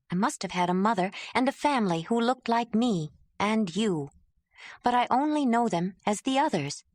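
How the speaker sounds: earnest confession, lightly voiced; Ayla pleading. Ayla opening her heart to Jondalar, gentle and earnest.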